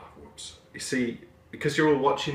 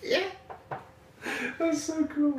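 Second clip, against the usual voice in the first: mock cool voice; 4 dB quieter, slower than usual. Mock street slang voice.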